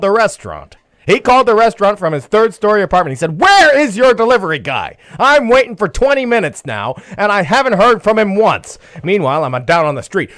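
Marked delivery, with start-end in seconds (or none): 3.4-8.8 higher-pitched complaining, retold; imitated angry customer. Customer calls the restaurant about his delivery, angry. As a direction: demand it like an irate customer on the line. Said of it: "he's yelling at my manager".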